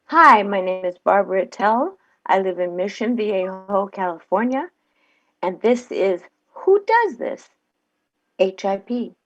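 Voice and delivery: friendly testimonial delivery for a commercial; ad read. Shown as a demonstration. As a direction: read the spot like a sincere customer. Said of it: "Here we go".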